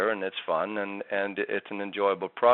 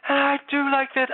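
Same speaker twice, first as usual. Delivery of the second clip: breathy leaky voice; 4 dB louder than usual. Shown as a demonstration. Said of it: "if I go breathy".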